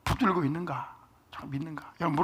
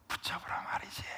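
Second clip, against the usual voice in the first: hushed, breathy whisper to the pews; 13 dB quieter than usual. Real, not acted. Pastor urging the congregation, whispering. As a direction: lean in and whisper it. Preacher drops voice mid-sermon.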